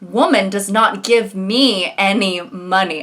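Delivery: slow, plain caveman talk; lightly voiced caveman. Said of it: "talking like a caveman".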